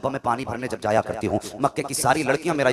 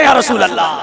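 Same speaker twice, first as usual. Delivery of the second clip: call-out; 8 semitones higher, 11 dB louder than usual. Real, not acted. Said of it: "जरा कह दे".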